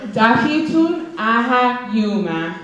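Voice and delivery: Dakitun Aha Yuma said slowly and evenly; slow model phrase. Shown as a demonstration. Teacher having the audience repeat the greeting, slow. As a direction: spell it out with the voice, slowly. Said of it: "repeat after me".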